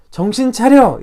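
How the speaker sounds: a father's firm rebuke, drawn out; stern rebuke. Acted. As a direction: wake them up with a stern slow command. God rebuking.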